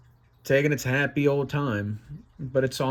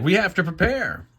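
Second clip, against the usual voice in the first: higher-pitched urgent call; commanding God; 7 semitones higher than usual. Acted. God urging his angels, commanding. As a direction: raise the voice to rally them. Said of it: "God's just been like".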